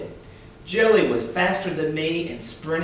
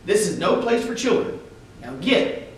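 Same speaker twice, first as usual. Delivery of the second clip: stern order; 6 semitones higher than usual. Acted. Policeman ordering children away.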